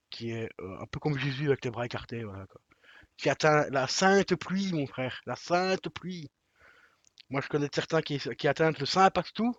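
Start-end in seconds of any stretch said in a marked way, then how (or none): 3.2-6.3 mock solemn, slow. Mock-solemn quote about the film.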